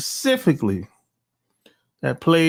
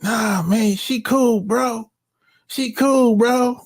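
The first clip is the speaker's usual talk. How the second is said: mock reassurance; 7 semitones higher, slower than usual. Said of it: "She's like".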